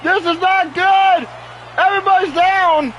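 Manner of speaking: alarmed commentary. Real, not acted. Chaos in the ring.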